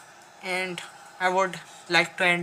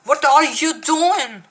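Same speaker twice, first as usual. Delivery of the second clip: higher, slow copy of the voice; imitating character; 6 semitones higher, 5 dB louder than usual. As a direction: echo the character, slower. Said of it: "echoing the game character".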